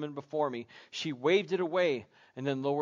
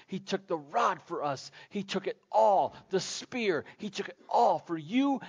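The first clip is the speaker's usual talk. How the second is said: rising fervor, pitched up, easing on the last phrase; impassioned preaching; 3 semitones higher than usual. Real, not acted. Preacher recounting what Jesus took for us, building fervently. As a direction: hammer each suffering home with mounting intensity.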